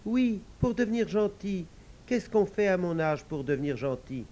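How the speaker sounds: little devil. Acted.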